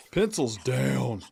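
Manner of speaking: slow, stretched-out proctor call; exam proctor. Pretend. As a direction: announce time's up like a test proctor. Ends timed drawing round.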